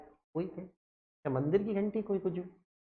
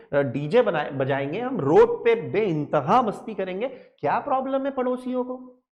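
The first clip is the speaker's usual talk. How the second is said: complaining student, louder and higher, protesting every rule; whining student; 3 semitones higher, 3 dB louder than usual. Acted. Teacher as student complaining to sir about laws.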